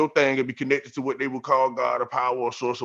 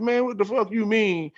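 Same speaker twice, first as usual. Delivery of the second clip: incredulous; 3 semitones higher than usual. Retold or imitated. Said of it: "I said".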